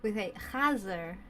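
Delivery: chazer with a throaty ch, said slowly; guttural chazer. Shown as a demonstration. Explaining her community's word, throaty chazer. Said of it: "where I come from, in the ultra-Orthodox community".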